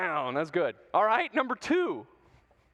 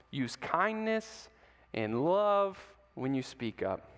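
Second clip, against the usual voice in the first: gentle key line; 3 semitones lower, slower than usual. Shown as a demonstration. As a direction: ease it in gently. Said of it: "key line again".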